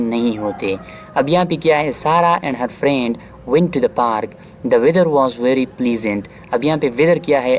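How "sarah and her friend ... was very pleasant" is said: slow, deliberate read-aloud of the example; teacher reading a sample sentence slowly; slow textbook reading. Shown as a demonstration. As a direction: read each word clearly for students.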